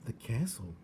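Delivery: awed whisper; hushed astonished whisper. A narrator's reading. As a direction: breathe it in wonder. Whispered wonder.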